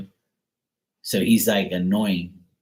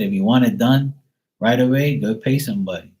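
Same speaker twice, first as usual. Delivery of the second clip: heated retort; 4 semitones higher, 5 dB louder than usual. Retold or imitated. Retorting to his nagging dad.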